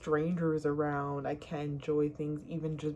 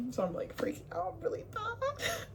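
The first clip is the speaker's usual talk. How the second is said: ordinary delivery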